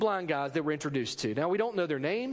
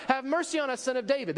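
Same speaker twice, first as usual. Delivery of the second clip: higher-pitched, pleading mock call; imitated calling out; 5 semitones higher, faster than usual. Blind men following Jesus keep appealing, imitated calling out. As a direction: call out insistently, without really shouting. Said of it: "They continue calling out".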